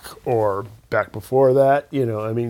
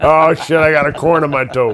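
loud, pitched-up put-on old geezer voice; 5 semitones higher, 6 dB louder than usual. Joking along about complaining like a grandpa: put-on grandpa voice. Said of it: "A grandpa".

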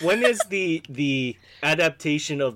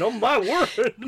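mock-shocked old gentleman gasp, pitched up; 9 semitones higher than usual. Speaker retells their reaction to finding someone's line, as a mock-shocked 40s gentleman. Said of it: "like '40s gentleman with my mouth over my hand".

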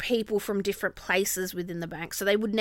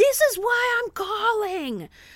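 acted-out, deliberate, very high, drawn-out scream; 12 semitones higher, 4 dB louder than usual. Retelling a call from a suspected scammer, quoting him: imitating someone screaming. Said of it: "He starts screaming at me, screaming".

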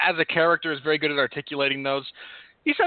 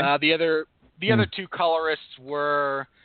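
plain

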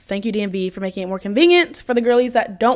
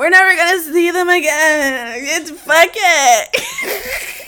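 very slow, pitched-up, put-on drunk voice; 7 semitones higher than usual. Retelling what the speaker kept telling him, put-on drunk voice. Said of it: "This is me and my drunk voice".

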